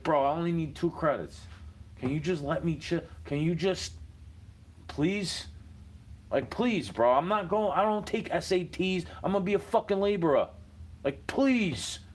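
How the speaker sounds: retold plea to a teacher for a sixty-five; begging teacher. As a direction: beg him for a passing grade, half joking. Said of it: "I was begging him".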